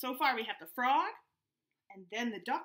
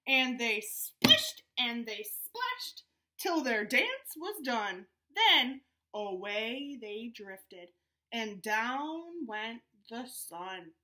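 calm story ending; 4 dB louder, much slower than usual. Acted. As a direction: ease the story to rest.

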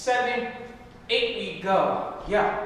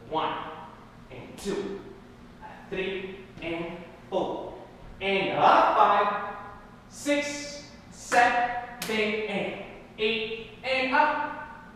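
slow counting; slower than usual. Shown as a demonstration. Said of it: "Let's go slow".

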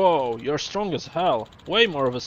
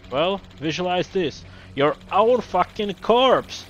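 angry rant. Acted. Producer ranting at the director who quit, angrily shouting. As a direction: tear into the director, swearing and shouting.

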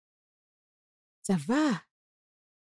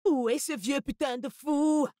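furious shout. Acted. Mistress yelling for the foolish old gatekeeper, furious shout. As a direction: bellow it at the whole household.

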